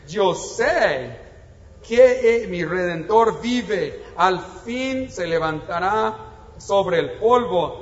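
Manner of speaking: slow, weighty reading of the verse; a hint of preaching fervour on Redentor; solemn scripture reading. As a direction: read it as a proclamation of faith. Reads Job's declaration of faith.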